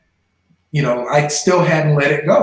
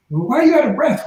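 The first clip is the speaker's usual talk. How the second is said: friend's voice; 9 semitones higher, faster than usual. Retold or imitated. Voicing female friend asking.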